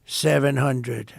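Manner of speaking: a slow, drawn-out robotic callout, lightly done; mock computer altitude call. Imitating the plane's computer calling out the altitude, slow. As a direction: count the altitude like the cockpit voice, slowly. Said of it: "It's a computer voice".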